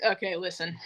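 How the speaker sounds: sudden voice change. Retold or imitated. Caller abandoning her act to confess, suddenly matter-of-fact. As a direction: drop abruptly from squeal to level voice. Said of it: "change in voice".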